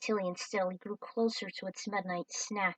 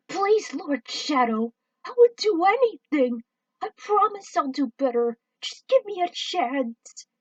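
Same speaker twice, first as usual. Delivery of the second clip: squeaky alien pleading not to be split up; desperate begging; 7 semitones higher, 8 dB louder than usual. Acted. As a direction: beg for mercy, near panic. Alien begs villain.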